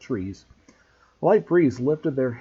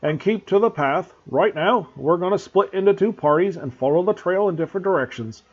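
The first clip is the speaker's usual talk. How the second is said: louder, lightly voiced big groundskeeper; gruff Hagrid; 5 semitones higher, 6 dB louder than usual. A narrator's reading. Groundskeeper greeting the pupils, gruff and loud. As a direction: boom out a gruff welcome.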